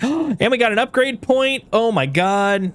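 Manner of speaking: high, breathless happy surprise; can't believe the bonus; gasp of joy. Real, not acted. Gets an upgrade point, gasps.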